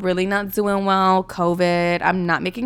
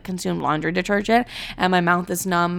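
ordinary talk, nothing marked

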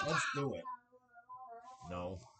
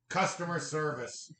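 customer service voice. Acted. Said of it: "Wait, I'm sorry".

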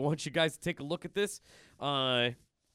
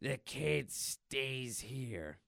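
very slow, softer stern line; Logan's flat order; 5 dB quieter, much slower than usual. Retold or imitated. Logan blocking Deadpool's plan, slow soft order. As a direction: lay it down slowly and quietly. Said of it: "and he goes".

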